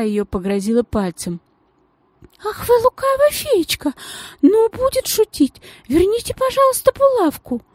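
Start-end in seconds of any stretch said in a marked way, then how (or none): 2.4-7.6 very high, teasing reproach; sugary lady wagging her finger at the girl; coy lady. Acted. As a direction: scold playfully, sugary and very high.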